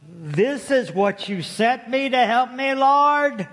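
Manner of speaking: acted-out dismay building to a high cry; mock-aghast complaint to heaven; dismayed disbelief. Woman's dismayed prayer in story.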